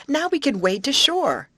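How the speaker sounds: high, loud, delighted announcement; joyous cry. A narrator's reading. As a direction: burst out with glad relief. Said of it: "cried Amy joyously".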